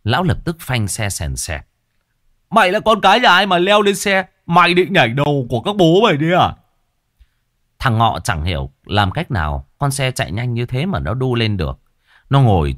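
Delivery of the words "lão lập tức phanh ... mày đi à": high, loud rough shouting; angry yell. A narrator's reading. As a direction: bark at the kid on the bike. Startled driver yelling at stowaway.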